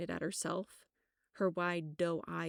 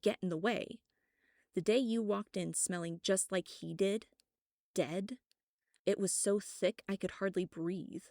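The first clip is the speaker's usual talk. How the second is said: resentful; 3 semitones higher than usual. Acted. Sarah resentful accusation, rising.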